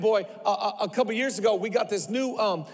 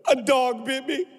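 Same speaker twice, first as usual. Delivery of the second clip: lightly imitated little boy, pitched up; crying child; 4 semitones higher than usual. Son fibbing to dad about his finger, imitated tearful child. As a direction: play a small child offering a feeble excuse. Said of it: "he walks in and he's crying".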